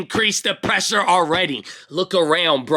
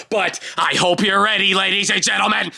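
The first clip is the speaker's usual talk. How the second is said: raised pitch, rallying sign-off; hyped announcer; 4 semitones higher than usual. Pretend. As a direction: call the crowd to get ready. Hyped announcer-style sign-off to viewers.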